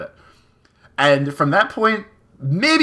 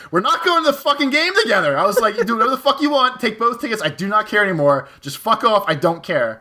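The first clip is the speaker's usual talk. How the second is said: mild mock yell, pitched up, fast in places; reliving the blow-up with a raised voice; retold yelling; 4 semitones higher than usual. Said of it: "so I'm screaming at this little girl".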